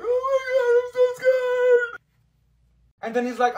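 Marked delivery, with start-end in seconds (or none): 0.0-2.0 mock scared. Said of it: "I sat down and I was like".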